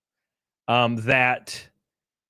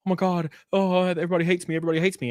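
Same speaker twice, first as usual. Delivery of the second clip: higher, whiny mock panic; mock panicked crying; 5 semitones higher, faster than usual. Friend calling everyone in a panic, mock crying whine. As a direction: imitate a friend panicking on the phone. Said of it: "start calling everybody on the phone, like, crying".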